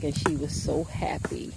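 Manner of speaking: soft unvoiced whisper of delight. Real, not acted. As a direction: whisper it fondly. Whispered to the animals.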